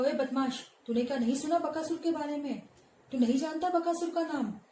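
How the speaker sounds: rising, heated demand; growing anger. Acted. Teacher voicing Bakasur angrily demanding recognition. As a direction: boast your name in a rage. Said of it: "Bakasur को और गुस्सा आता है".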